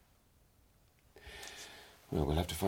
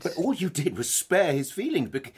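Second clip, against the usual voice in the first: higher and louder, heated; raised voice; 9 semitones higher, 5 dB louder than usual. Acted. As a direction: let your voice rise in anger. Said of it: "keep your voice down".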